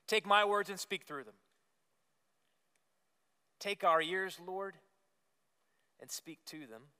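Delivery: measured prayer with long pauses between phrases; spoken prayer. Real, not acted. Leads congregation in prayer.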